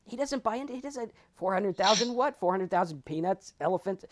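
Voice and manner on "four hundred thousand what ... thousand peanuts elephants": higher, puzzled mock voice; tossing out random guesses; clueless guru. Voicing the indifferent guru.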